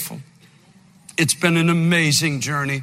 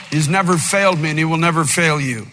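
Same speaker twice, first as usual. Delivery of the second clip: preaching shout. Acted. Pastor shouting the prayer's promise to the congregation, full voice.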